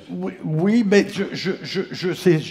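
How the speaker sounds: mild stutter on je and quand; stuttering again. Retold or imitated. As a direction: stumble over the repeated words. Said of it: "L'autre, il bégayait".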